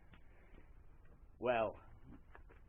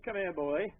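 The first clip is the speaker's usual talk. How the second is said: master questioning farmhand; 5 dB louder, slower than usual. Acted. Master sternly questions his farmhand.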